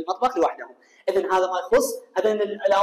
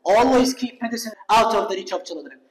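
بطيء وواضح كأنه إملاء; اقرأ الجملة كلمة كلمة للطلاب; قراءة بطيئة; much slower than usual. Shown as a demonstration. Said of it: "فدائمًا شو أقول مثلًا؟". (قراءة بطيئة جدًا مع إبراز always)

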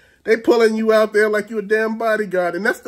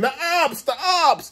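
mock scream; 6 semitones higher, slower than usual. Imitating friend raising the alarm, mock scream. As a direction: imitate his cry of alarm without real volume. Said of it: "He gonna start screaming".

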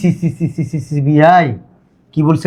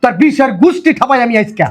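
high, exasperated outburst; cursing in exasperation; angry dismissal; 4 semitones higher than usual. Acted. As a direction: cut the excuse off angrily. Cuts off excuse in quarrel.

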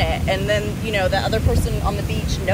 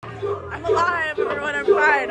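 calling out; 3 semitones higher than usual. Real, not acted. Woman calling to friends that she is fine, called out. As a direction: reassure them from a distance.

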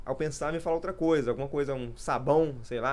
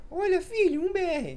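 much higher squeaky teasing voice; squeaky little voice. Retold or imitated. Teasing Charlie during a match in a squeaky voice. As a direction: needle a friend in a tiny high voice. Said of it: "Aí eu falava com o Charlie".

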